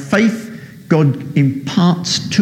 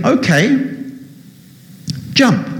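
voice from above; 10 semitones higher than usual. Acted. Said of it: "So God said to him".

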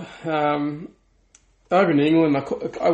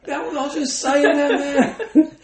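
laughing; 11 semitones higher, 4 dB louder than usual. Retold or imitated. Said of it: "I'm like".

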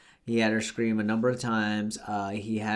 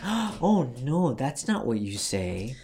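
Shirley Temple voice; 2 semitones higher, slower than usual. Retold or imitated. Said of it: "In a very Shirley Temple-esque way".

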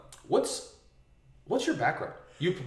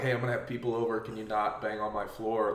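softer, lower, mild-mannered retelling; polite request; 3 semitones lower, 5 dB quieter than usual. Retold or imitated. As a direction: gently read out a polite note to a neighbor. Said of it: "Like, real nicely".

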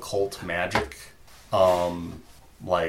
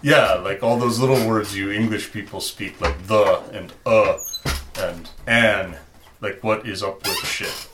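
put-on Russian accent; 5 dB louder than usual. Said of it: "call up my Russian accent".

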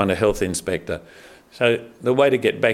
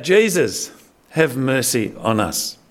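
retold lepers' cry, raised but not a full yell; mock cry for help; slower than usual. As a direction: call out to Jesus from a distance, half-acted. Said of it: "yell out".

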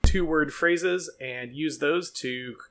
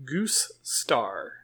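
whispered; 5 semitones lower, 6 dB quieter than usual. Real, not acted. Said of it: "you're mispronouncing something when you say that".

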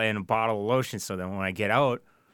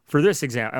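1 mocking Taylor; 6 semitones higher, 7 dB louder than usual. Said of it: "you're like".

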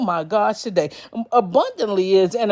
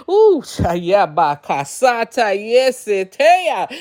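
tongues; slower than usual. Real, not acted. Speaking in tongues in prayer.

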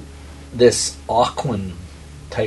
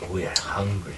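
watery creature voice; 2 semitones lower, 7 dB quieter than usual. Acted. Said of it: "watery voice".

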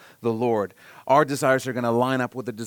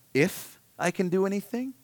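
incredulous echo; 6 semitones higher than usual. Retold or imitated. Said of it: "Jesus' response, you'll see, is".

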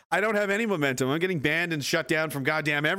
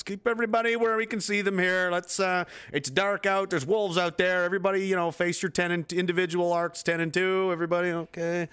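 group lookout; 3 semitones higher than usual. Acted. Acting a leader rallying the group.

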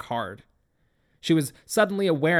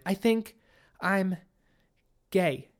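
halting, higher start with pauses before the last words; hesitant confession; 3 semitones higher, slower than usual. A narrator's reading. Daughter coming out to her father, hesitant. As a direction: edge into it word by word.

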